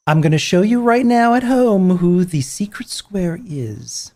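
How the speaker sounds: whispered aside to viewers at home. Acted. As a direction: lean in and whisper it to the audience.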